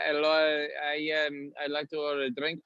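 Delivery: lightly put-on customer voice; a hint of an acted coffee-shop customer. Customer ordering at a coffee counter, lightly put-on voice. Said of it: "so you use different voices".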